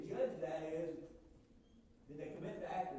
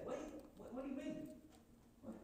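ordinary delivery

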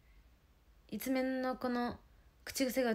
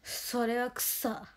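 very slow, drawn-out catchphrase; slow teasing catchphrase; mock cool catchphrase; much slower than usual. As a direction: stretch every syllable to tease her. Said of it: "かっこよく言ってない".

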